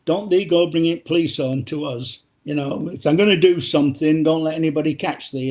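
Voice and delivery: lightly imitated Yorkshire accent; a hint of a Yorkshire dad's voice. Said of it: "in his Yorkshire accent".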